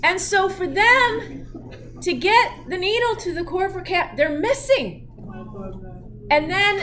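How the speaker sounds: high, loud, breaking into laughter; laughing while talking. Real, not acted. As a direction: tell it through the giggles.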